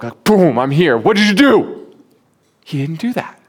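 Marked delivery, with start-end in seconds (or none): 0.2-1.9 higher, louder showman's booming arrival; mock magician entrance. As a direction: burst in like a stage magician. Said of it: "appeared on the scene like a magician in a puff of smoke".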